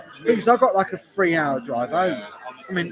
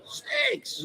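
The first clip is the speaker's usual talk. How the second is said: squeaky mock voice; 5 dB quieter than usual. Voicing a chat message.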